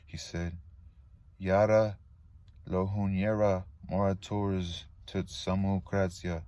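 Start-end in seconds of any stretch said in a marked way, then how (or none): 1.4-6.4 Yara punched, the rest drawn out; island dialect. Acted. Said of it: "he'd say in dialect".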